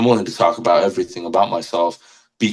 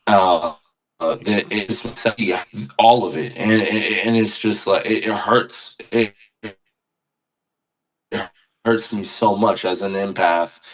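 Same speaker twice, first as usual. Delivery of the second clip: halting, choked-up stammer with long breaks; holding back tears; slower than usual. Real, not acted. Empath admitting to podcast host how much it hurts, holding back tears. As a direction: struggle to get the words out without crying. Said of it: "I'm trying not to cry".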